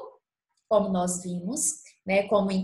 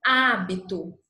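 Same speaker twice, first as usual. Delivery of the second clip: "Hábito" with a strong open first syllable, falling; stress demo; 2 semitones lower, 4 dB louder than usual. Shown as a demonstration. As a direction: hit the Há of "Hábito". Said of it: "Olha a diferença".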